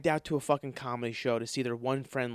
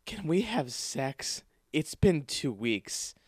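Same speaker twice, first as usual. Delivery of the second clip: mock whiny plea; much slower than usual.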